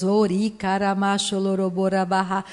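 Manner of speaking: rhythmic glossolalia syllables; speaking in tongues. Shown as a demonstration. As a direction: pray aloud in tongues. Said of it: "Falará novas línguas".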